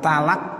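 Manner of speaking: "talak" with light t and open a; slow "talak", ta instead of to; ta-initial pronunciation. Shown as a demonstration. Teacher showing dialect, "talak" with plain ta. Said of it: "pakai ta".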